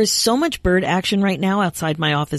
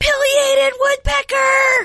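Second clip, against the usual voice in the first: mock very high, thrilled shriek. Retelling spotting a woodpecker on her feeder: imitating her own excited scream. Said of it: "I just screamed".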